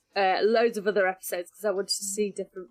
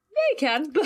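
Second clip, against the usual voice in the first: sarcastic retort; 6 semitones higher than usual. Retold or imitated. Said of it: "And I was thinking".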